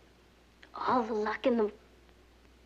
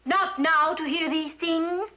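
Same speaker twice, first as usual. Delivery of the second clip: higher, slow student echo of declamation; attempted ringing tones; 4 semitones higher, slower than usual. Shown as a demonstration. Student repeating the drama teacher's line, attempting ringing tones. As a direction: copy the teacher's stage delivery, drawn out. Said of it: "that's the general idea".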